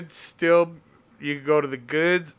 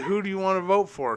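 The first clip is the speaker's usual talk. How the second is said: quick, higher-pitched question to a pet; talking to a dog; 5 semitones higher, faster than usual. Retold or imitated. Owner asking his dog who gets her vote, pitched-up pet talk.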